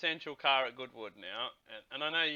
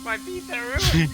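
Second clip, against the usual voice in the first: put-on Italian accent; 10 semitones higher, 11 dB louder, slower than usual. Burnt pizza car, Italian exclamation.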